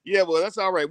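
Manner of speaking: getting choked up mid-sentence, voice jumping high; real emotion welling up while thanking the audience. Real, not acted. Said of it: "I think I got choked up".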